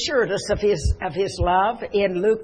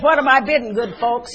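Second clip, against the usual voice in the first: auctioneer's cry; 3 semitones higher, 5 dB louder than usual. Acted. Auctioneer calling to the good folks for bids, loud cry. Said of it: "he cried".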